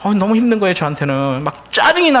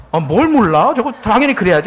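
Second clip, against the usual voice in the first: louder, indignant retort in the daughter's voice; daughter's angry retort; 6 semitones higher, 4 dB louder than usual. Retold or imitated. Daughter arguing with her father over a drama, louder and indignant. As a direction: snap back at dad, mock-outraged and louder. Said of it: "딸이 그걸 보더니 막 화내가지고".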